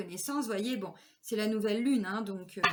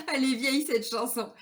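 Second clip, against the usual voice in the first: laughing; 3 semitones higher, 3 dB louder than usual. Real, not acted. Laughing at her own song quote.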